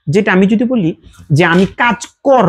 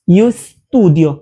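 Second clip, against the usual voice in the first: slow model phrase; much slower than usual. Shown as a demonstration. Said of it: "এটাকে বলতে হবে স্টুডিও".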